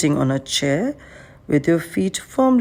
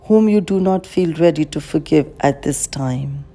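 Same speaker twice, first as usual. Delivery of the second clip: unhurried guiding voice with long pauses; calm, measured meditation guide; guided meditation. Acted. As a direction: lead a meditation, leaving space after each phrase.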